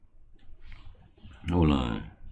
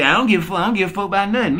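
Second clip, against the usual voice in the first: high, sassy mimic of a woman; mocking hood voice; 10 semitones higher, much faster than usual. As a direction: toss it off like you don't care. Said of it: "That's what the hood rat bitches say".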